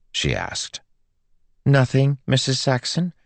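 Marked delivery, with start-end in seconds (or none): 1.6-3.1 high, chirpy innocent reply; perky. A narrator's reading. Girl covers up to Joel's mother, perky. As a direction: brush it off brightly. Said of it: "Melody said perkily".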